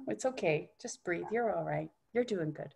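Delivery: calm yourself down, quietly; soothing the body. Pretend. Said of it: "Your body's kinda going".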